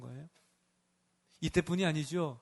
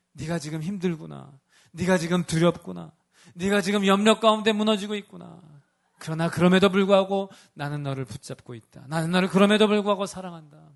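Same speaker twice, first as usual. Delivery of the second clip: loving reassurance; 5 dB louder than usual. Pretend. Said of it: "사랑하는 눈빛이고요".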